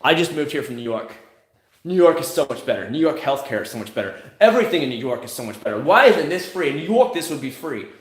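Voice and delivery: lightly mocked New Yorker complaint; hammed-up entitled griping; mock complaining newcomer. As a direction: imitate a griping transplant, pitch jumping at the end. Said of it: "here's what they all do".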